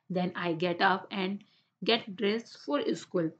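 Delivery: slow, careful read-aloud for the class. Shown as a demonstration. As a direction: read each word out slowly and clearly. Teacher reads English paragraph aloud.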